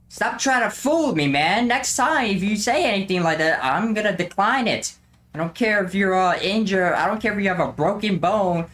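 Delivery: high-pitched scolding rant; mock angry rant. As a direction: tell him off, half joking. Scolding the creepy customer.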